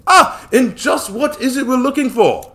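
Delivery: loud, high oily businessman; a smug, fawning money man; slimy Samuel. Acted. Samuel smugly pressing them about where to land.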